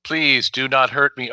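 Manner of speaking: put-on frail old man voice, slow; lightly voiced feeble old man. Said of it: "he's always like".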